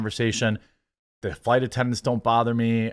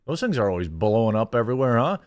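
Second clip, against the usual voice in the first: annoying chatty passenger. Retold or imitated. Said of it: "He would say something stupid like".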